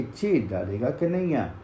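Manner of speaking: distant echo answering the threat. Acted. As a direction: let it come back faint from far off. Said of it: "वही आवाज वहाँ से आई कि".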